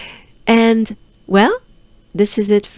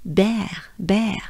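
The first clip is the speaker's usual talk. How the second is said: French accent bear; 3 dB quieter than usual. Shown as a demonstration. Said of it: "pronounce it with a French accent".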